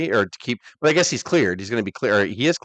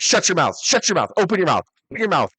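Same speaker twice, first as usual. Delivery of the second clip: imitating The Rock; 6 semitones higher than usual. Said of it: "He's like".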